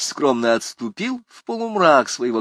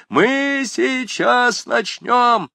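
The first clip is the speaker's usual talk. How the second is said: loud, high and very slow announcement; shout to the crowd; 5 dB louder, much slower than usual. A narrator's reading. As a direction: announce it over the whistling crowd. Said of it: "крикнул он во весь голос толпе". (громкое объявление толпе)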